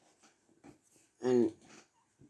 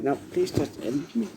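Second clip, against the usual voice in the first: mildly voiced plea, barely raised; retold plea; 2 semitones higher than usual. Unseen victim begging to be ended, mildly retold cry. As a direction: retell a victim's cry without really screaming. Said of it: "hear someone again scream".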